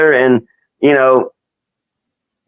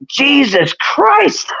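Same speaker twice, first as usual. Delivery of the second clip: very high, stretched-out outcry; mock yell; 11 semitones higher, much slower than usual. Friend mimics the soaked fan looking down, high mock yell. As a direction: draw it out slow and high, without much volume. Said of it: "he yelled out".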